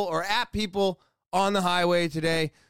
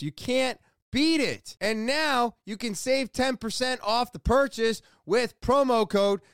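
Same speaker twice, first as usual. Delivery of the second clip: ad read; 2 semitones higher than usual. Acted. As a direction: sell it with punchy, stretched-out key phrases. Reads sponsor promo.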